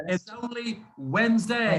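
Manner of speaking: Wednesday as WENZ-day, slow and deliberate; silent D Wednesday. Shown as a demonstration. Teacher slowly corrects the student's Wednesday. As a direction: say It's only Wednesday slowly, dropping the D. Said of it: "No, no, no।".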